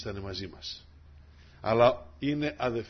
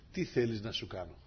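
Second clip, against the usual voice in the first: gentle Lord; 3 semitones lower, 5 dB quieter than usual. Acted. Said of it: "το λέει σε όλους μας ο Κύριος".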